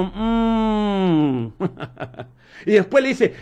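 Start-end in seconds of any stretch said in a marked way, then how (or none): 0.0-1.5 long drawn-out acted "mm"; skeptical hum. Yeshua answering the woman's boast, long hum. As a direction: hum it slowly, as a mock reply. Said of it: "Y Yeshua le dijo".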